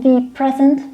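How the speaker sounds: THE as stressed "thee" before PRESENT; emphasis on PRESENT. Shown as a demonstration. Teacher reading an example for emphasis, stressed THE present. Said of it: "We wanna stress the word here".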